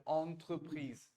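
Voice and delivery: "entreprise" said slowly with a clear French entre; corrected entreprise. Shown as a demonstration. Teacher corrects the student's English-like enterprise. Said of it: "entre पढ़ना है".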